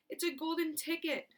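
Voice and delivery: high shriek of delight; excited scream. Acted. Shopkeeper to Charlie, shrieking high with excitement. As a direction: shriek it, beside himself with joy. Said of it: "screamed the shopkeeper".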